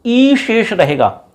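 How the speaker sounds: slow, spelling out "ई शेष रहेगा" word by word; slow it down so the class can note "ई शेष रहेगा"; slow for dictation. Shown as a demonstration. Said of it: "सिर्फ क्या बचेगा?". (धीरे-धीरे बोलकर "ई शेष रहेगा" लिखवाना)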